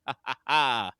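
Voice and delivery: loud, high, grand showman laughing; hammy Italian Duke. Acted. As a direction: play to the crowd with flair. Duke performs to the crowd.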